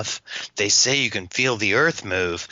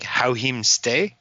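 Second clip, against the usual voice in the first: mock Jamaican patois; slower than usual. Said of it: "between the accent".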